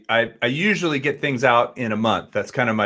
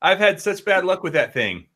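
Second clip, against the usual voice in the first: exasperated; 6 semitones higher, slower than usual. Real, not acted. Exasperated rant about a bad drone.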